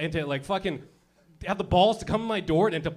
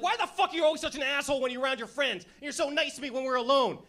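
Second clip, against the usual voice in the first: put-on higher whiny girlfriend voice; mock nagging girlfriend; 7 semitones higher than usual. Mimicking women asking boyfriends, whiny higher voice. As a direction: whine like a fed-up girlfriend. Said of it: "you're like".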